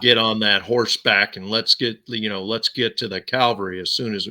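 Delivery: half-hearted western film star voice; John Wayne. Shown as a demonstration. Cowboy urging riders toward the cavalry, in a half-hearted imitation. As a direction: lightly imitate a cowboy actor. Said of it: "I tried to do John Wayne".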